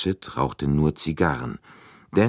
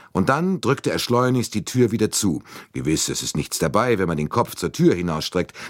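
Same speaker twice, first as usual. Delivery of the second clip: a slightly raised, firm officer's voice; lightly voiced indignant English colonel; stern colonel; 4 semitones higher than usual. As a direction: colonel defending private justice, firm. Colonel recounting what he saw.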